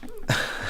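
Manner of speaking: soft, breathy little chuckle; short laugh. Real, not acted. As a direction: let out a brief, quiet laugh. Recalling awkward moments, amused.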